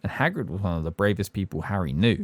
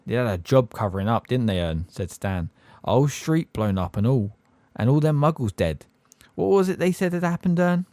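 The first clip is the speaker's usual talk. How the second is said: lightly voiced cockney bus conductor, gossiping; Stan's cockney voice; 3 semitones higher than usual. Stan voiced in audiobook.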